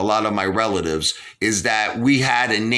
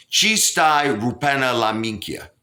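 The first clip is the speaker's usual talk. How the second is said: Sicilian dialect; 3 semitones higher than usual. Retold or imitated. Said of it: "So I would always say".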